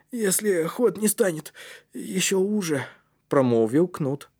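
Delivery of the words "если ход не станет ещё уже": put-on high, subdued boy's voice; doubtful. A narrator's reading. Кнут doubts the passage will let them through, hesitant. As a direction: add the doubt haltingly. Tired boy adds a doubt.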